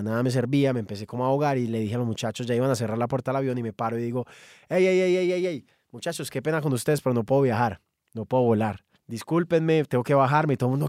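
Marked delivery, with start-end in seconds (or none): 4.7-10.5 urgent panicked plea. Retold or imitated. Panicking, asking to get off the plane.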